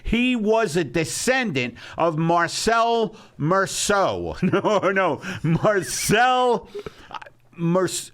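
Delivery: loud, high, offended boasting; indignant outburst. Acted. Host defends his vocal training to critic, indignant shouting. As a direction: protest at the top of your pitch, wounded pride. Bragging about his Paris teacher.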